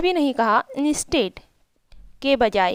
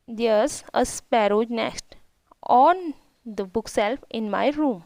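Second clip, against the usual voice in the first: slow, careful read of each English word; slow reading aloud; much slower than usual. Shown as a demonstration. Teacher reading the English story line to her pupils, slow and careful. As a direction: read it out slowly for the class.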